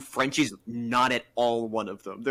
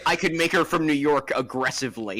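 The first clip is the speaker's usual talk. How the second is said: put-on aggressive New York accent; 4 dB louder than usual. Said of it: "I thought you were gonna say".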